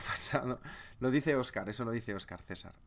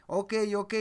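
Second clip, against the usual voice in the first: mock Japanese trader; 9 semitones higher, 5 dB louder than usual. Japanese counterpart confirming trade.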